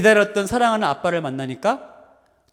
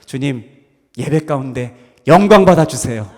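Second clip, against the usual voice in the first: heartfelt prayer, swelling then settling; impassioned devotional plea; fervent prayer; 3 semitones higher, 6 dB louder than usual. Real, not acted. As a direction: pray aloud earnestly to a loving Father. Leads a prayer to God.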